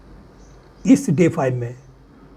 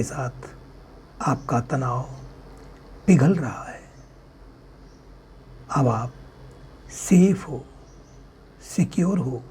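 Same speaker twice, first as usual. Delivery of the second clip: unhurried relaxation guidance; guided meditation; 4 dB quieter than usual. Acted. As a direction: guide listeners gently into relaxation, phrase by phrase.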